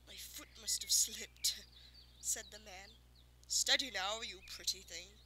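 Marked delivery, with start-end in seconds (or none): 0.1-1.5 sheepish farmer. Acted. Fat man excusing his lunge. 3.5-5.2 low, soothing horse-handler voice, loud on steady; coaxing farmer. Acted. Farmer coaxing the unicorn closer, low and soothing.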